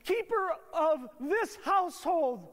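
butter up dad theatrically; over-the-top child sucking up to father; kids' mock flattery. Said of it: "And they come to me".

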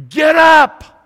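high, full-force shouted command; screaming. Acted. Imagined voice yelling at a husband on the couch, screaming. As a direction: scream it like an urgent order. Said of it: "someone's screaming at me".

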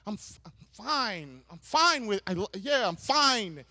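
understated, held-in mock anger; angry husband. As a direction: insist through a touch of anger. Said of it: "And he's angry".

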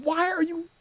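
a loving God telling you to grow up; lightly voiced God, mock stern then kind; God's voice. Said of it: "God is saying".

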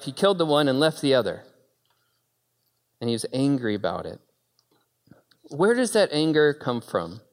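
usual speaking voice

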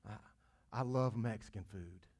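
offhand mock of everyday talk; casual "I love" as people say it; casual throwaway. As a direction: toss it off lightly. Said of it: "we throw that word around".

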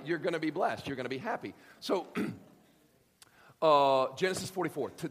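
ordinary delivery

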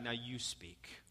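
hushed whisper to God; whispered prayer. Retold or imitated. Believer prays to God in a soft whisper. Praying, letting God speak.

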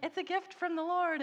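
high, bright emphasis landing on "Lord"; cheerful declaration. Retold or imitated. Rebecca telling her teachers her French came from God, cheerfully. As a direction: proclaim it gladly. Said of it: "And I'm like".

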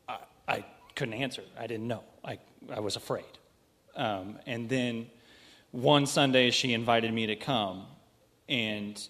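nervous, shaky voice; trembling with stage fright; shaking from nerves. Real, not acted. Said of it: "I'm shaking from nerves".

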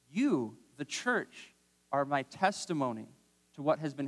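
mock-indignant rhetorical questions; sarcastic reading. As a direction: read it with a sarcastic edge. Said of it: "I kind of read it sarcastically".

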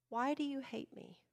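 high, soft, near-tearful question, acted; mock pitiful whimper; wounded plea to God. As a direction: ask it in a small hurt voice.

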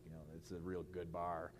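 a hint of a kid making the best of a small candy bar; low, quiet mock-thankful kid voice; grudging kid. Kid talking himself into a small candy bar, grudgingly. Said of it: "and you're like".

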